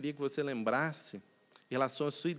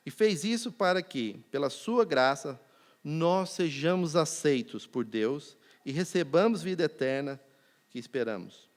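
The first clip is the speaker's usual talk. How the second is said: scripture reading; 3 semitones lower than usual. Acted. Reads Titus verse slowly.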